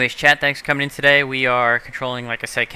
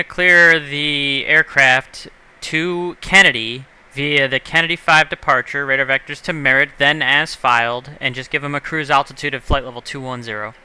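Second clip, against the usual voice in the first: slow and clear; 3 semitones higher, 5 dB louder, slower than usual. Real, not acted. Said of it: "could you say that again?".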